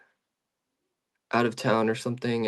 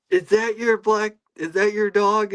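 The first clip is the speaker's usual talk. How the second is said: much higher, lilting question; polite hopeful question; 9 semitones higher than usual. Retold or imitated. Narrator asks a stranger in her backyard, high polite question. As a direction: ask sweetly and hopefully.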